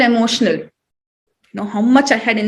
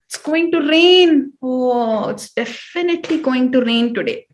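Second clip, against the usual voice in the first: sarcastic. Shown as a demonstration. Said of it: "It's the Indian way of being sarcastic".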